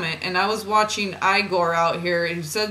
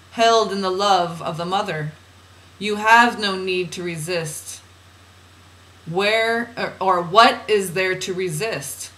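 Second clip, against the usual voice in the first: measured, deliberate spiritual reading; oracle reading; 5 dB louder, slower than usual. Acted. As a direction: read it out as solemn guidance. Reads channeled guidance aloud.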